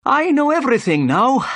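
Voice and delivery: very high, excited inspector; pompous inspector announcing his discovery loudly; triumphant cry. A narrator's reading. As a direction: cry out in self-satisfied triumph, pitched high. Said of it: "he cried".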